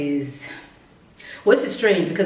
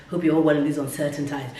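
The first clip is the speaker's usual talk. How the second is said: mocking the cliché; 3 semitones lower, faster than usual. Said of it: "I'm getting tired of hearing all these uncertain times".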